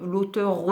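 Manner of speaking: l'auteure with the final e voiced as an extra syllable; feminine ending sounded. Shown as a demonstration. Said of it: "pour qu'on sache que c'est une femme".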